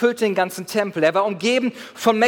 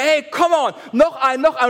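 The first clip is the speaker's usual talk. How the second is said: mock coach pushing, a bit higher; imitating a gym buddy; 5 semitones higher than usual. Preacher imitating a gym buddy pushing him, mock coaching. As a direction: egg him on like a spotter. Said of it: "irgendwann schreit er".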